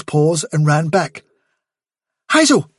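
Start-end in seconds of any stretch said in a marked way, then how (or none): 2.3-2.7 much higher and louder call; Blackberry's high voice. A narrator's reading. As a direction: grab the leader's attention.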